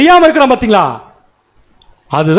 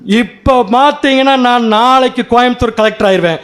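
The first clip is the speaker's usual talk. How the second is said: mildly voiced overconfident claim; lightly acted bragging; overconfident boast; 3 semitones higher than usual. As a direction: announce it with a touch of boundless self-belief. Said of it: "நம்பிக்கை அளவு கடந்த நம்பிக்கையா இருக்கும்".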